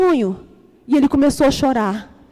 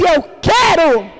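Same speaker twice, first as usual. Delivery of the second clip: firm declaration; slower than usual. Retold or imitated. Declaring to the universe.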